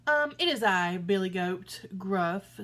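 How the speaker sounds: loud, steady goat voice; big goat answering the troll, bold and loud; big billy goat. Acted. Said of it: "said the goat".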